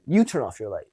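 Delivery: firm, commanding, no give; dominant tone. Retold or imitated. Supervisor to coworker, firm commanding tone. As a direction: put her in her place calmly. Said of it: "that aggressive, dominant tone".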